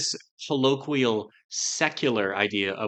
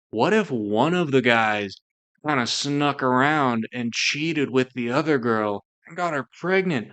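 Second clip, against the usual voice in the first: laid-back surfer dude voice, lightly done; California surfer. Retold or imitated. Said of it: "talking like a California surfer".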